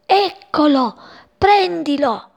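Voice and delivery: lightly voiced creeping children; children sneaking.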